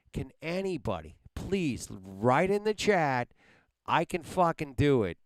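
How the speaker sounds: angry demand. Real, not acted. Fed-up streamer daring chat to commit, loud and angry. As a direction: dare the chat to volunteer.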